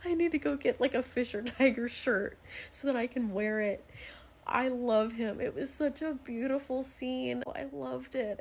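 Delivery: high, choked-up gushing; overcome with emotion. Real, not acted. Fan gushing to viewers about a beautiful scene, choked up.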